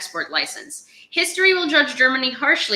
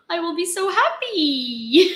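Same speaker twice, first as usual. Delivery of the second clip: slow, high, gushing delight with a laugh; mock overjoyed; 9 semitones higher, slower than usual. Gushing to viewers about a dream job, overjoyed. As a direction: savour every word like a dream come true.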